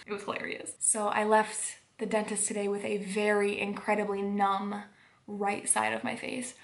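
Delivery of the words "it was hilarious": breathy laugh through words. Real, not acted. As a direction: giggle it out. Laughing about the tooth.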